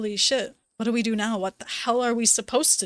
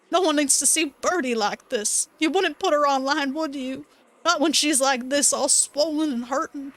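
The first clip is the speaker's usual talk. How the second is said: silly Duke voice; 3 semitones higher than usual. Acted. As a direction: beg her to put the camera away, old rancher style. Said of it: "I'm making this silly voice".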